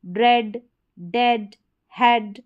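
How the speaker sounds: "ड्रेड, डेड, हेड" one by one with open eh; word list, each with an eh vowel; short E sound. Shown as a demonstration. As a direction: model "ड्रेड, डेड, हेड" with eh, spaced apart. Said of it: "ए करके हो रहा है".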